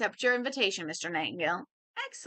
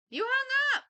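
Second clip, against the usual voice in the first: indignant outburst. Acted. Caller left hanging on phone.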